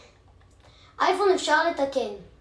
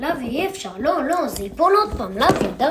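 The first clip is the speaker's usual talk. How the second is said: loud panicked pleading; urgent panicked yelling; 4 semitones higher, 8 dB louder, much faster than usual. Real, not acted. Panicking about object falling.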